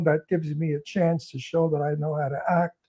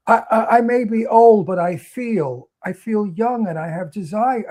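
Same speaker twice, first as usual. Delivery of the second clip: quoting Barbara Stanwyck; 3 semitones higher, 4 dB louder than usual. Retold or imitated. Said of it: "where she tells him".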